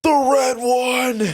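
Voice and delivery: high, slow put-on customer voice; mock customer. Customer insists on the red milk, mocked high and slow. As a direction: spell it out like a pushy shopper. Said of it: "He's like".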